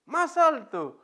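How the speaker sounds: put-on high, eager kid's plea; excited child. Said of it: "Pero esta vez dice".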